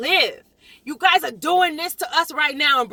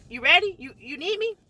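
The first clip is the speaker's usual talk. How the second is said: imitating attorney. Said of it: "My attorney's like".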